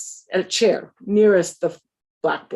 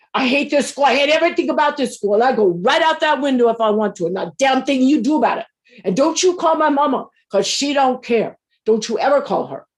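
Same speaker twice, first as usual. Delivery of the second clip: put-on fast, defiant rant from a teen who hates school; defiant student; 3 semitones higher, 3 dB louder, faster than usual. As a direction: rattle it off fast, daring the teacher to stop you. Angry student defies new teacher.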